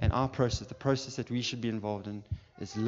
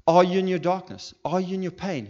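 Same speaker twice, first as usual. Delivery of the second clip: high, loud challenge to the listeners; fervent raised-voice appeal; impassioned preaching; 8 semitones higher, 9 dB louder than usual. Real, not acted. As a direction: press each question home with force. Preacher presses congregation at full force.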